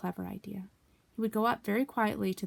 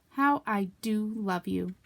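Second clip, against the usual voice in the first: fond; slower than usual. Acted. Tender to Pooh.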